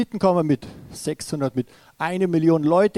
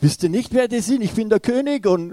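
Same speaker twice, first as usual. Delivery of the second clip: raised, higher outraged outburst; a king beside himself, shouting indignantly; furious king; 5 semitones higher, 4 dB louder than usual. Retold or imitated. King berates his messengers, a mock furious shout. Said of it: "der König natürlich total außer sich und sagt".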